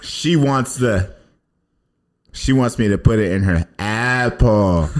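tongue held, words slurred; holding tongue with fingers. Shown as a demonstration. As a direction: speak while pinching your tongue. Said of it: "Hold your tongue and say apple".

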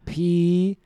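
letters spelled out very slowly; slow recital. Acted. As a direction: drag out each letter while thinking.

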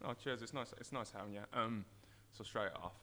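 hoarse after a night out; rough croaky morning-after voice. Real, not acted. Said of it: "apologise for my croaky voice".

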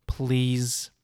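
breathy whispered please. Real, not acted. Pleading with Microsoft for stock, whispered please. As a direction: let the please fall out as a whisper. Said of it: "I'm not crying, by the way".

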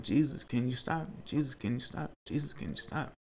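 quiet, repeated silent prayer retold; softly recalled inner pleading; inward plea. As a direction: plead under your breath, fading with each repeat. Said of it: "The whole time in my head".

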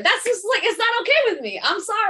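mock upset. Real, not acted. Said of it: "I'm upset with the disrespect".

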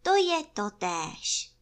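high, slow bear reply; high, drawn-out pondering; thoughtful Pů. A narrator's reading. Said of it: "Pů zamyšleně přikývl".

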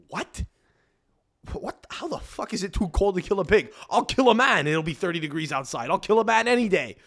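high-pitched, retold disbelief; incredulous protest. Boyfriend disputing it's too cold to kill pigs, incredulous. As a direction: protest in mock outrage, pitch jumping up.

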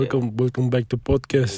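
put-on Russian accent. Host welcoming listeners back to the podcast, mock Russian accent. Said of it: "but they do sound like".

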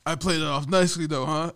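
smug boss. Retold or imitated. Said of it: "He's like".

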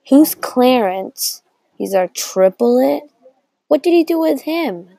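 high, drawn-out demanding questions; accusing questioning. Acted. Child confronts mom about a hidden triplet, high and accusing. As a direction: confront her, pitch climbing with each question.

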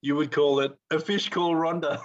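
punchline through a giggle; chuckling as he says it; laughing. Real, not acted.

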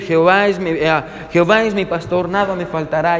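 lightly voiced actor reciting a psalm; actor's recitation. Famous actor reciting the psalm to his audience, lightly imitated. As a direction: recite it evenly at a normal speaking level. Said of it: "su voz y su entonación eran simplemente perfectas".

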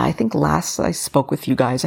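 ordinary talk, nothing marked

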